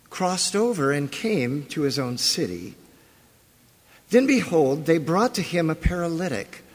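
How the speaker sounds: measured formal reading aloud; scripture reading. Acted. Pastor reading Matthew nine to the congregation, measured and formal. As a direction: read the verses with weight.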